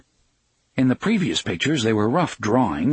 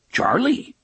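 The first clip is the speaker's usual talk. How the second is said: very high little train voice, rising; small gruff voice; 13 semitones higher than usual. A narrator's reading. Talking train names itself to the engineer, small gruff voice. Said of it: "said the small, gruff voice".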